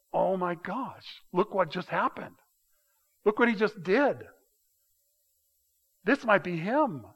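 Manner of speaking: mild excitement. Retold or imitated. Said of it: "You could almost hear an excitement".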